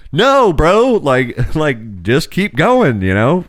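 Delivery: high, then slow laughing plea; laughing encouragement. Retold or imitated. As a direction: coax him through a laugh.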